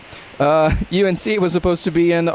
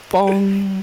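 sustained "bong" like a bell; imitated bell toll; 2 semitones higher than usual. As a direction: intone a solemn bell strike. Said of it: "what do we hear?".

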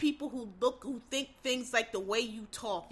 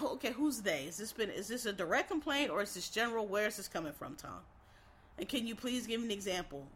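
calm professional; 2 semitones lower, 5 dB quieter than usual. Acted. Acted calm workplace pushback.

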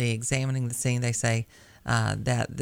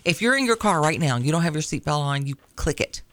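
firm, louder mom scolding; 2 semitones higher, 4 dB louder than usual. Acted. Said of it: "That was my mom voice".

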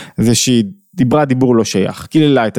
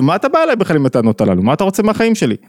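mock anger; 4 semitones higher, faster than usual. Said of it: "ואז אתה כועס עליו אפילו".

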